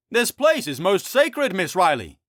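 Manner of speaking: earnest high-pitched friar. Acted. Friar voice.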